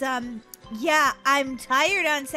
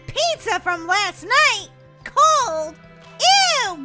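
put-on high, incredulous child's protest; acted disgust; 7 semitones higher, much slower than usual. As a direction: rise to an appalled ew.

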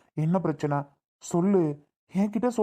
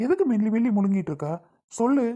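impatient demand; 4 semitones higher than usual. Acted. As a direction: raise the voice and demand she speak. Husband presses wife to speak.

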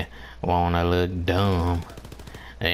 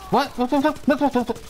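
1 squealed surprise; much faster than usual. Real, not acted. Sudden surprise in game.

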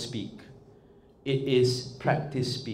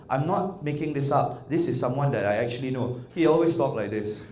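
imitating a monotonous acquaintance; mock monotone talker. Shown as a demonstration. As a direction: keep droning evenly through each phrase. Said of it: "It's quite monotone".

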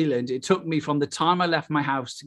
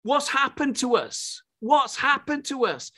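raised, high-pitched preaching; fervent preaching; 6 semitones higher than usual. Real, not acted. Preacher telling the congregation Paul's message to the Athenians, fervent preaching. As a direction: preach it urgently in a higher voice.

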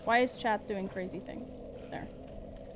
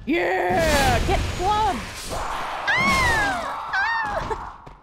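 loud, raised battle yell; triumphant shout; 8 semitones higher, 5 dB louder, much slower than usual. Real, not acted. Gamer clubbing an enemy, triumphant shout. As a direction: shout it out mid-fight, pitched up. Yelling triumphantly in game fight.

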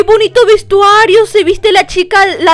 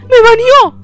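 higher, sudden cry of disbelief; shocked outburst; 4 semitones higher, slower than usual. Real, not acted. Baby player just banned by the lady, higher shocked cry. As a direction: blurt it out, caught off guard.

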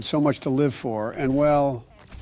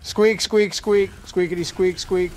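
hamster squeaks; 2 semitones higher, slower than usual. Acted. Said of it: "so he squeaks".

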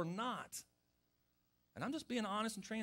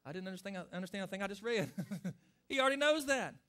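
sample prayer; 2 semitones higher, 4 dB louder than usual. Shown as a demonstration. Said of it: "you just pray".

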